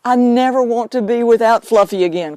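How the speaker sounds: a light self-pitying whine; mock negative crying. Medium parodies owners crying to keep their dead pet, lightly whiny. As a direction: play the owner who won't let go. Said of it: "Cry, cry".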